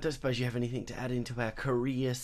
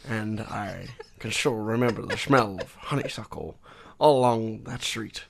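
lightly voiced hard-boiled narrator reading a monologue; a touch of Sean Connery in a noir read; noir detective voice. Co-host reads a noir monologue, a hint of detective growl. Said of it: "the silly Sean Connery-esque".

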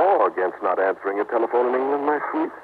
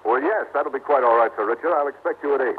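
higher, courteous phone voice; telephone manner; 4 semitones higher than usual. Acted. Husband agreeing to Sir Richard's visit by phone, raised polite voice. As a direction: pitch it up for the caller.

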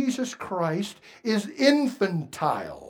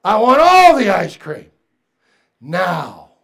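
put-on spoiled child; 5 dB louder than usual. Voicing a demanding infant believer.

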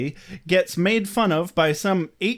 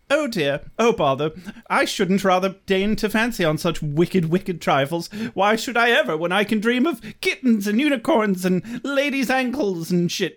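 prissy poet voice; 4 semitones higher than usual. Retold or imitated. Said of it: "his answer was".

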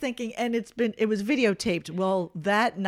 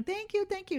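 quiet thanks; 9 semitones higher, 10 dB quieter than usual. Retold or imitated. Mom retells thanking the clown.

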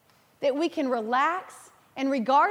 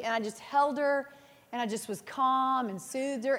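soothing storytelling; 4 dB quieter than usual. Real, not acted. Soothing daughter to sleep.

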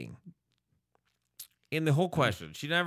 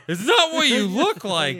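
mock caught excuse; 8 semitones higher, 5 dB louder than usual. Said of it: "Did you just say".

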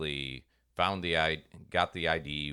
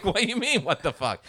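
higher, louder, laughing through the words; amused disbelief, chuckling; laughing God; 12 semitones higher, 5 dB louder than usual. Retold or imitated. God answering the angry preacher, laughing as he speaks.

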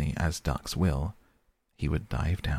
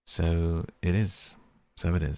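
hearty. A narrator's reading. Mole agreeing with Rat about the ducks, heartily. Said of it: "with great heartiness".

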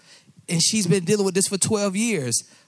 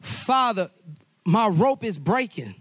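mild cry out; 3 semitones higher than usual. Acted. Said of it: "the son cried out".

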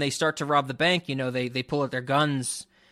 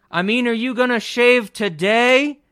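nagging wife voice; 7 semitones higher, 6 dB louder than usual. Retold or imitated. Wife asks again in scene.

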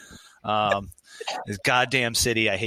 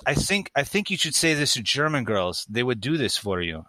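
put-on German girl's accent. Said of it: "I dated a German girl".

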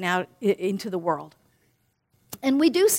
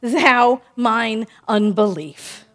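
mock cry; 3 dB louder, slower than usual. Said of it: "the father cried out".

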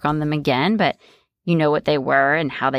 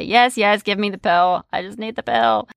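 eager client; 2 semitones higher than usual. Retold or imitated. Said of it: "she'll say".

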